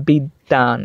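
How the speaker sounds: বিদ্যান in two beats, "bid-dan"; doubled consonant. Shown as a demonstration. Teacher repeating the example, বিদ্যান with doubled d. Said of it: "এই যে দ্বিত্ব হচ্ছে".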